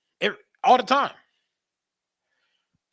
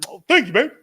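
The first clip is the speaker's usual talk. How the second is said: high, loud mock-sweet thanks; husband hamming up thanks to his wife; grateful husband; 7 semitones higher, 10 dB louder than usual. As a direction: gush thanks over the meatloaf. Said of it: "he gonna be like".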